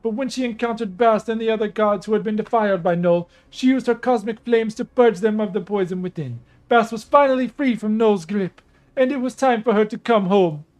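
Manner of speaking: regal storyteller goddess; lightly voiced proud princess. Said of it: "I gotta do a Nubian female goddess voice".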